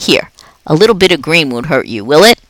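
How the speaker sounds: a jolly night janitor chatting to a pet; upbeat, chatty custodian; Aldo the cheerful janitor. Acted. Aldo sharing food.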